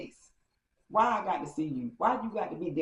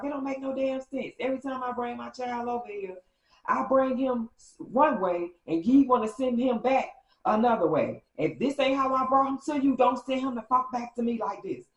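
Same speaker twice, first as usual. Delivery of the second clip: high, building, louder tirade; angry rant; 7 semitones higher, 4 dB louder than usual. Retold or imitated. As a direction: let the fury climb line by line. Delulu ranting about the father.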